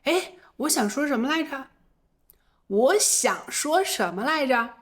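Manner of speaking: musing as if a word slipped away; mild demo of a forgotten thought; trying to remember. Shown as a demonstration. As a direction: search your memory aloud. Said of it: "我也可能会说".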